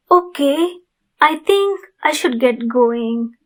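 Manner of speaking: gentle, courteous vampire asking a favour; sweet, apologetic creature of the night asking nicely; polite vampire neighbor. Acted. Vampire neighbor asks listener for blood, gentle and polite.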